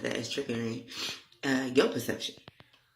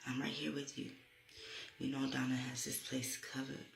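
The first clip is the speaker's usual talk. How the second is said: reassuring; 5 dB quieter than usual. Retold or imitated. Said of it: "she's telling me".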